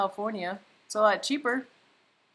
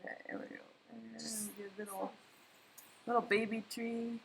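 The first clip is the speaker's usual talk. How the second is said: whispering; 2 semitones higher, 13 dB quieter than usual. Real, not acted. Concentrating while painting.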